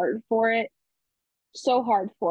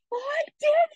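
high, breathless crying whisper; choked-up whispered triumph; tearful whisper. Retold or imitated. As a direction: whisper it through happy tears. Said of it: "and I was like".

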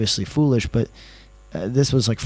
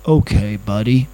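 lightly put-on Middle America voice, louder; Middle American accent; 4 dB louder than usual. Driver agreeing on a fare, mock Middle American accent. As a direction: imitate a Middle American, punching it out. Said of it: "going to do somebody from Middle America".

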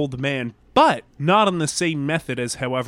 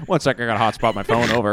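ham radio voice; 7 semitones lower, faster than usual. Acted. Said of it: "you dropped your ham radio voice".

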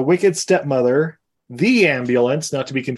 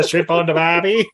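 put-on Australian accent; 4 semitones higher than usual. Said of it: "Dumb and Dumber jokes like".

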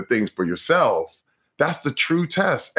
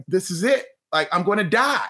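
mock dread; 6 semitones higher than usual. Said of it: "I was gonna pass out".

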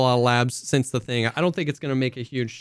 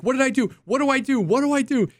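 higher, frantic what do I do; mock panicked friend; 10 semitones higher, faster than usual. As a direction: imitate her freaking out over the nade. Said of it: "She's like".

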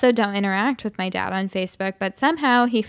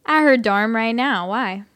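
put-on drunk voice. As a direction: play a sloppy drunk guy. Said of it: "I'll just do my drunk voice".

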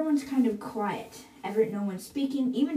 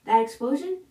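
mild shout. Acted. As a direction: call out urgent news without full shouting. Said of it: "And Jim shouts".

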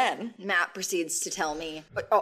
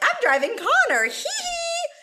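high giggling glee, much higher; giggly gloating; 6 dB louder than usual. Retold or imitated. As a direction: giggle it out like a naughty kid. Giddy quote of sneaking off.

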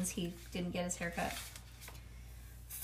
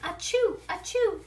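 high, loud mock achoo; storybook sneeze, punched up high; two big fake sneezes; acted sneeze; 9 semitones higher, 7 dB louder than usual. A narrator's reading. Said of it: "I started to sneeze".

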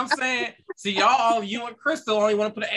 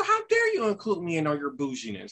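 pearl-clutching; 4 semitones lower, 4 dB quieter than usual. Acted. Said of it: "you're grasping your pearls right now".

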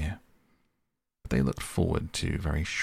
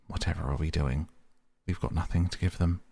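fast, mild despair; fretful, near tears but understated; faster than usual. Acted. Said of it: "he cried in despair".

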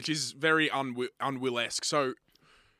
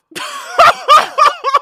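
loud, high squealing laugh; high excited laugh; 21 dB louder than usual. Pretend. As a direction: squeal with delight. Overexcited mock reaction.

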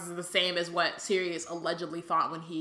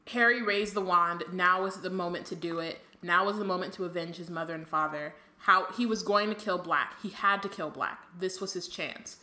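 reading the book aloud; measured narration of the passage; story reading. Acted.

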